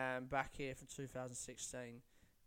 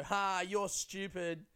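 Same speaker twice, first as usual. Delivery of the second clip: mocking taunt; 5 semitones higher, 3 dB louder, much slower than usual. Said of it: "then they go".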